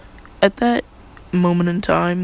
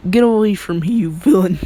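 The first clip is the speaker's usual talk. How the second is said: mock angry yell; 2 semitones higher, 6 dB louder than usual. Bakugo rejects Deku in retelling.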